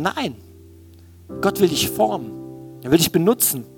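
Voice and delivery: usual speaking voice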